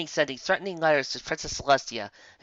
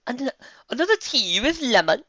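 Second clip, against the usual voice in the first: waiter's voice; 12 semitones higher than usual. Acted. Waiter asking Twilight.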